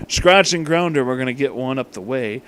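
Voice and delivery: plain reading voice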